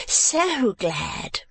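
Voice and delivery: high, fawning lady's voice; gushing wife. A narrator's reading. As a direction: coo it to the uncle. Wife gushes again.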